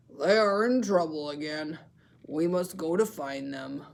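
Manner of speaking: a grandpa deciding to search; Grandpa Walrus voice. Shown as a demonstration. Teacher voicing Grandpa Walrus setting off. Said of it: "show you how to use voices".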